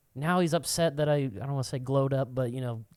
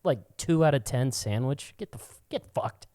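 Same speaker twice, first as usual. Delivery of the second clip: higher, heated ranting; mock rant; 4 semitones higher than usual. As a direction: tear into him. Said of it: "I was like".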